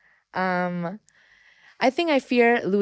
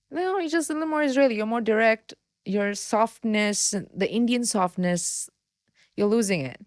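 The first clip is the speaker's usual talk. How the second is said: quoting friends; 3 semitones higher than usual. Retold or imitated. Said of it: "my Indian friends say".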